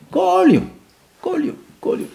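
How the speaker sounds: monte très haut; répète avec élan; enthousiaste. Real, not acted. (עם התלהבות, בקול גבוה)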